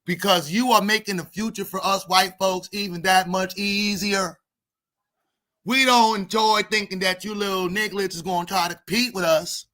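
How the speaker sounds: mock preachy white man addressing the crowd; a smug speech from a racist white persona. Comic's white persona gives a mock speech to black kids, lightly voiced. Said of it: "I need a name for my white voice".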